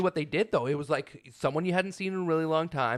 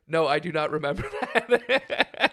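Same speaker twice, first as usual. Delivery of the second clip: adamant denial; slower than usual. Retold or imitated. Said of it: "Adamantly not remembering".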